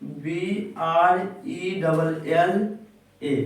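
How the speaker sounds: each letter drawn out slowly; slow spelling out. Shown as a demonstration. Teacher to class, spelling umbrella slowly letter by letter. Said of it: "अब बोलेंगे".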